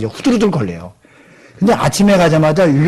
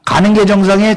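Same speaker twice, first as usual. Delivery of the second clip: 가는 asked with a rising, questioning tune. Shown as a demonstration. Preacher quizzing the congregation, stress on 가는. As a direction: put the weight on 가는 and lift the end. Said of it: "여러분은 집에 잡니까?".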